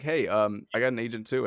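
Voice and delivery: tentative and unsure, with a hesitation before it; the nervous nineteen-year-old fan, hesitant. Retold or imitated. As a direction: say it shyly, testing the waters. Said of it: "I didn't say it just like that".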